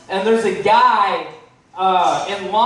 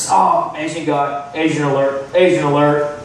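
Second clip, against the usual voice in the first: mock redneck; 6 semitones lower than usual. Imitating a racist hardware customer.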